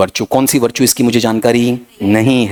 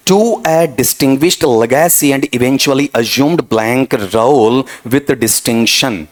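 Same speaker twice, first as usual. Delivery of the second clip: reading the question aloud very slowly; slow dictation; much slower than usual. Shown as a demonstration. Teacher dictating a test sentence to students, slowly. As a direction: spell out each word like dictation to a class.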